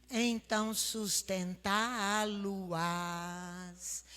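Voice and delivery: leitura bíblica lenta e solene. Acted. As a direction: leia o versículo devagar, com reverência. (leitura solene das Escrituras)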